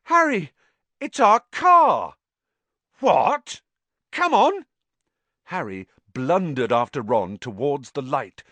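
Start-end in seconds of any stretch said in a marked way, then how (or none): 0.0-2.1 high, ecstatic shout; shout breaking with relief. A narrator's reading. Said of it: "his voice breaking with relief". 3.0-4.7 high, loud, urgent shouts; loud high-pitched holler; calling out. A narrator's reading. Boys calling out across the forest.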